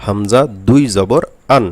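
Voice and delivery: slow drill of হামজা দুই জবর আন, ending in আন; tanween reading. Shown as a demonstration. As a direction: read it out slowly like a Quran teacher, ending আন. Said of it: "তাহলে এখানে উচ্চারণ করতে হবে". (ধীরে ধীরে হামজা দুই জবর আন উচ্চারণ)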